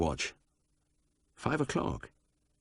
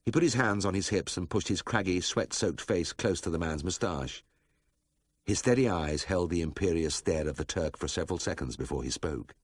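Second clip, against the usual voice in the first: ordinary delivery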